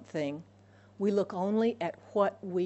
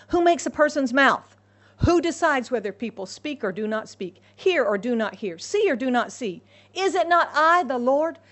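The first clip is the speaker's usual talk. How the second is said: booming, louder voice of God; God speaking; 4 semitones higher, 7 dB louder than usual. Shown as a demonstration. Preacher voicing God to Moses, booming. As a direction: thunder it out as God would. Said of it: "I think God said it like this".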